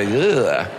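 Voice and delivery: low, drawn-out groan of disgust; imitated queasy groan; mock disgusted "ugh". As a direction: let out an icky, grossed-out ugh. Imitates feeling sticky, disgusted.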